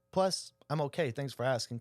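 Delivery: a touch of dry sarcasm, slowed, pitch lifted on the first words; lightly mock the boss with a sour thank-you; retold sarcasm. Retelling how he answered his nitpicking boss, mildly sarcastic. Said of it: "kinda sarcastically".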